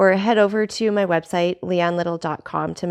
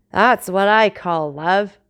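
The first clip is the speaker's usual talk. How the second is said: tipsy; 4 dB louder, slower than usual. Acted. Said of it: "with a voice more tipsy than ever".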